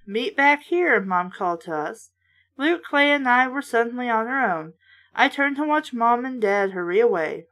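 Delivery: a lightly voiced read-aloud of a horror book; reading the story steadily to listeners; story narration. A narrator's reading. Reader narrating a kids' horror book, lightly voiced.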